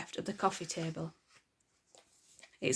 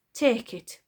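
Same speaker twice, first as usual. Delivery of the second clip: pleading; 3 semitones higher, 5 dB louder than usual. Acted. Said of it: "pleaded Father".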